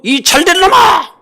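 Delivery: high, loud mock scolding; mock angry blessing. Shown as a demonstration. Preacher showing parents how to yell a blessing. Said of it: "이렇게 말해야 돼".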